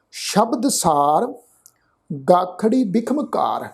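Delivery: slow, measured chanting of the verse; scripture recitation. Shown as a demonstration. Teacher reciting the verse for the congregation, slow and measured. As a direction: lay each word out slowly and reverently.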